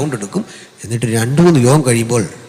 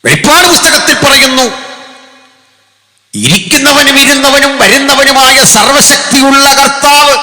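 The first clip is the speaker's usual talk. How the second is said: scripture proclamation; 14 semitones higher, 6 dB louder than usual. Real, not acted. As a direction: proclaim the Lord to the whole hall. (ഉച്ചത്തിലുള്ള വചന പ്രഘോഷണം)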